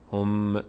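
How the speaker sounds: هم with the final m let go; wrong pronunciation. Shown as a demonstration. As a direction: say هم as a learner's mistake, m not cleanly closed. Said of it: "اینجوری نشه".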